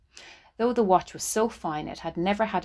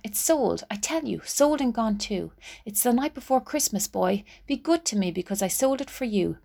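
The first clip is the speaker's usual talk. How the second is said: pleading; 4 semitones higher than usual. Acted. Della pleads.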